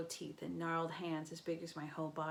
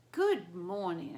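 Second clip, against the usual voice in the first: slow glazed greeting; 7 dB louder, slower than usual. Acted. Glazed crew member.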